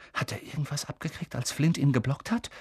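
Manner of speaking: hushed, breathy whisper. Acted. Seamus whispering to friends in the stands. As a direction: lean in and whisper worriedly. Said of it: "flüsterte Seamus".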